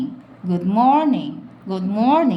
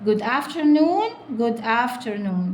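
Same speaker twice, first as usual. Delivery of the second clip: very slow reading; much slower than usual. Shown as a demonstration. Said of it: "slow drawn-out model reading".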